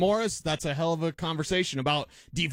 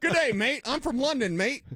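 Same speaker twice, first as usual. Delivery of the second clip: hammed-up higher Australian accent; mock Australian; 7 semitones higher than usual. Riffing on the reporter in a mock Australian accent. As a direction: lay on a cartoon Aussie accent. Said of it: "That did sound sort of Australian".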